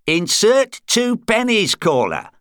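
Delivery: high-pitched, mildly vexed operator; slightly vexed. A narrator's reading. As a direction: instruct a caller with a touch of annoyance. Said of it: "Slightly vexed".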